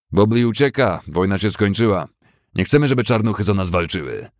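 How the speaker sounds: mocking bully. Fessenden taunting the black youth, loud sneer. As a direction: jeer it like a smug bully.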